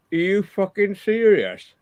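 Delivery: stretched-out disbelief, voice up high; slow, high outraged disbelief; incredulous. Retold or imitated. Told the windscreen price, stunned outrage.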